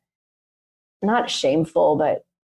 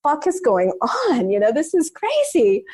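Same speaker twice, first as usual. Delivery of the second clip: bewildered; 5 semitones higher than usual. Retold or imitated. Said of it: "And I was like".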